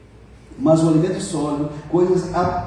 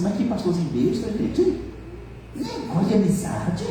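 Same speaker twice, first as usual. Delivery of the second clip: scornful, softer grumble under the breath; scoffing mutter; 3 semitones higher, 4 dB quieter than usual. Retold or imitated. Young convert scoffing at his pastor, mocking and soft. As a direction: sneer at the old pastor's advice. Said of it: "falei assim".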